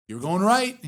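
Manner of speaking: mock scolding in cartoon-villain style. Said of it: "It's that cartoon villain you mentioned".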